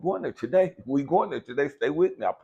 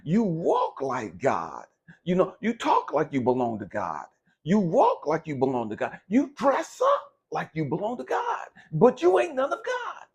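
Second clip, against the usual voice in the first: preachy mock quote; 4 dB louder than usual. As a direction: parrot the holier-than-thou saying. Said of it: "there's a saying that says".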